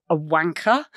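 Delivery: a wry, mocking "A wanker." with a sneer in the voice; sarcastic air quotes. Writer quoting a British swear word with sarcasm. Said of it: "sounded great with a sort of horrible little sarcastic air quotes".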